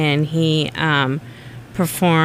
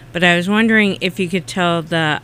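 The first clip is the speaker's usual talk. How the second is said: talking around a mint; words slightly thick around a mint; mint in mouth. Real, not acted. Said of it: "sorry, I have a mint in my mouth".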